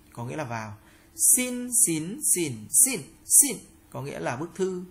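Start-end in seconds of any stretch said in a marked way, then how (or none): 1.4-3.6 "Xin, xín, xỉn, xỉn, xỉn" through the tones, starting high and level; high, rising, dipping, falling takes of "Xin, xín, xỉn, xỉn, xỉn"; tone drill. Shown as a demonstration. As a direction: recite "Xin, xín, xỉn, xỉn, xỉn" changing only the pitch contour. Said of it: "phần luyện tập về thanh điệu".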